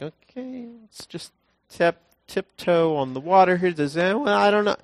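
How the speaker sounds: high, hesitant timid Peter voice. Retold or imitated. Peter hesitating before stepping onto water, high timid voice. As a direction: tiptoe the words like scared Peter. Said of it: "for Peter to be like".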